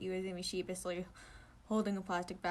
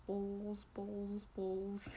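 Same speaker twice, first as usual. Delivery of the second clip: whispered; 6 dB quieter, much slower than usual. Acted.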